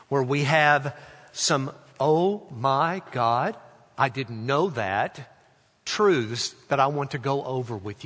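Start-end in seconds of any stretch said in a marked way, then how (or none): 2.0-5.3 very slow, measured wonder; unhurried, thoughtful revelation; reverent discovery. Shown as a demonstration. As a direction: stretch each word in awed realization. Repeats the reverent reading of phrase.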